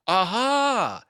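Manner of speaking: loud, high, triumphant; hammed-up gloating aha. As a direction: fling out the aha like a gotcha.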